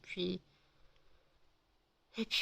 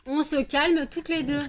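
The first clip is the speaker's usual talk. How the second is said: higher, louder, slower command; firm louder order; 6 semitones higher, 5 dB louder than usual. Real, not acted. Scene: owner telling two dogs to calm down, louder and slower. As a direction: stretch it out to stop them.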